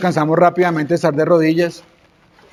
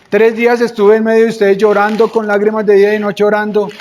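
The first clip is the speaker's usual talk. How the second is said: raised, higher preaching quote; fervent testimony; 4 semitones higher than usual. Acted. Pablo reminds his flock of tearful prayer, fervent testimony. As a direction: declare it with mounting fervour, without sobbing.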